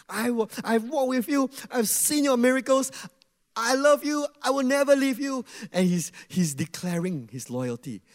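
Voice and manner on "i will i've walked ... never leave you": earnest vow. Retold or imitated. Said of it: "So that was Peter".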